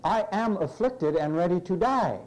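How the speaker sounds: "am" picked out after "I"; deliberate verse reading that points to "am"; stress on "am". Shown as a demonstration. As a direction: read the verse with "am" clearly marked. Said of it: "Look at that word after I".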